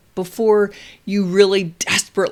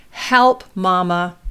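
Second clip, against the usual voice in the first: modelling words; 5 dB louder, slower than usual. Shown as a demonstration. Parent gives toddler the exact words, simple modelled call. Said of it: "we give the exact words they need".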